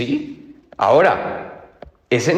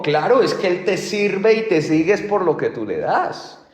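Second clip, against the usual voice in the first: accusing enemy; 5 semitones higher than usual. Retold or imitated. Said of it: "el enemigo llegó y le dijo".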